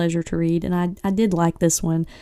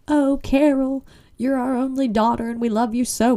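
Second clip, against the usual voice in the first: fake sweet; 5 semitones higher than usual. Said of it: "then the Jimmets were like".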